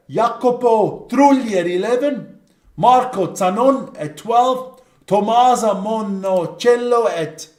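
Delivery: slow, stretched Italian-accented names; best Italian accent. Shown as a demonstration. Host announcing the backs, drawn-out Italian accent. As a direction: roll out each name in a playful Italian accent. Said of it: "your best Italian accent".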